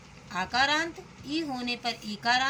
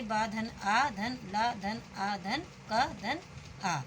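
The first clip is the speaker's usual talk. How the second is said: slow spelling out; 3 dB quieter, slower than usual. Shown as a demonstration. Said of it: "इसका भी वर्ण विच्छेद देखिए".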